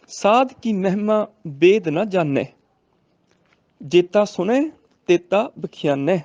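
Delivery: slow, drawn-out sacred verse reading; measured teaching recitation; scripture recitation for teaching. Shown as a demonstration. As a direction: recite the line slowly, stretching the ends.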